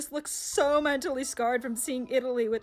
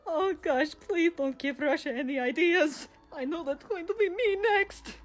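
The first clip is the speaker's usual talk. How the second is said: almost crying; 4 semitones higher than usual. Acted. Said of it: "I think he's almost crying like".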